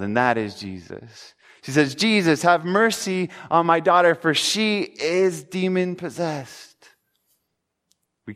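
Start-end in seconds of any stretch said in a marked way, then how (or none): 1.9-6.7 higher-pitched plea, slowing markedly at the end; retold pleading cry. Mother begging Jesus for her daughter, retold cry. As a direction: retell a mother's appeal, stretching the last words. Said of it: "she cries out to the only person".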